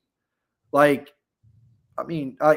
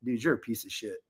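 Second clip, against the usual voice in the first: muttered insult under breath; 4 semitones lower, 10 dB quieter than usual. Retold or imitated. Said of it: "And I was like".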